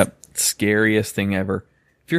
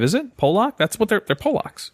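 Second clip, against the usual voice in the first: high and unsure; 9 semitones higher than usual. Real, not acted. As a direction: voice jumps up high. Unsure if word is offensive.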